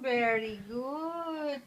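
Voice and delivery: slow, drawn-out praise; warm praise. Real, not acted. Praising toddler.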